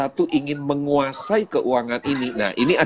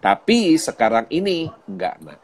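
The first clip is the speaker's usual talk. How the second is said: put-on gentle talk to child; 2 semitones lower than usual. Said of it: "saya akan ngomong sama anak saya".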